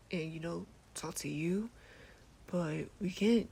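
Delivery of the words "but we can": voice crack. Real, not acted. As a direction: voice cracking mid-sentence. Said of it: "sorry for the voice crack".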